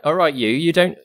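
lightly voiced servant woman, lively and lilting; Jazana, chiding servant. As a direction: lightly play a chivvying kitchen servant.

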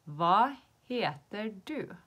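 very slow word-by-word question; slow teaching model. Shown as a demonstration. Teacher repeating how to ask someone's name, slow demonstration. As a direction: give learners each word separately, firmly.

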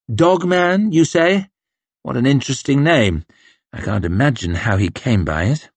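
high, amused sneer; mock the name with fake interest; sneering officer. Officer mocking Dogman's name, sneering.

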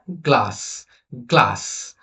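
গ্লাস said separately, s clear at the end; pronunciation demo. Shown as a demonstration. Teacher asking pupils to hear s, pronunciation demo of গ্লাস. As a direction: model the closing s in গ্লাস. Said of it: "সাউন্ডটা আমরা শুনতেছি".

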